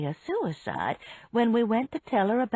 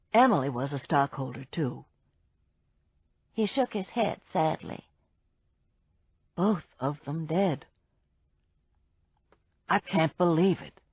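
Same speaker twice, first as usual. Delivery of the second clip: lightly voiced man; 3 semitones lower than usual. Jason voiced by narrator.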